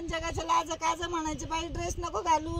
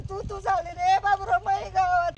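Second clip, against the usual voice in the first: tearful pleading; 3 dB louder than usual. Acted. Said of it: "आता रडू नको".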